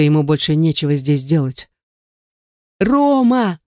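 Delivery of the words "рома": shrill desperate call, much higher; hysterical cry. Acted. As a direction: call after him in hysterics. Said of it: "крикнула в истерике".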